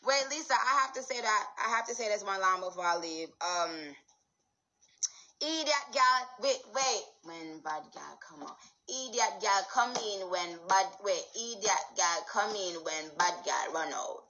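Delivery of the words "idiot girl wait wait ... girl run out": rhythmic Jamaican patois riff, half-chanted; playful Jamaican patois lyric. Pretend. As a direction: rattle off lines in Jamaican patois. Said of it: "You do not understand Jamaican".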